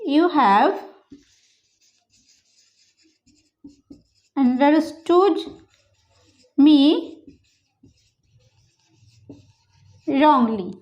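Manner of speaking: "You have" ... "understood" ... "me" ... "wrongly", pauses between; word by word. Shown as a demonstration. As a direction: chop it into pieces. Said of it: "তো এটাকে ইংলিশে বলবো".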